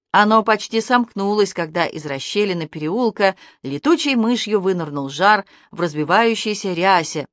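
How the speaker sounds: ordinary delivery, nothing marked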